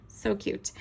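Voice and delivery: soft breathy whisper of delight; whispered gush. Real, not acted. Crafter whispering over a cute teacup stamp, hushed delight. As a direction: whisper it like a secret treat.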